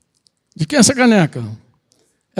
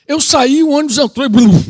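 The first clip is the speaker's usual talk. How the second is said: retold escape; 4 semitones higher, 7 dB louder than usual.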